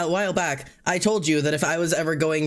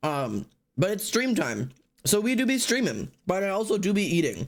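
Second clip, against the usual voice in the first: talking through a mouthful of food; 4 semitones higher than usual. Streamer starting a stream while eating dinner: talking while eating. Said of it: "I'm eating dinner right now".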